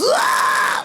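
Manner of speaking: airy pinched scream, very high; fry scream. Shown as a demonstration. Singer demonstrates a metal fry scream, airy and piercing. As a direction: rip a breathy fry scream. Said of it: "it sounds like this".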